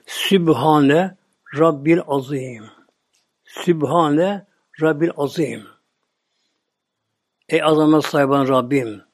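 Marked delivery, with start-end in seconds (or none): 0.1-5.7 slow, reverent recitation of "Sübhane Rabbil Azim"; drawn-out devout chanting of the tesbihat; prayer recitation. Shown as a demonstration. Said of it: "tesbihat deniyor böyle".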